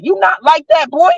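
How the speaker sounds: high scornful shout at him. Real, not acted. Taunting the dad in the video, a high scornful shout.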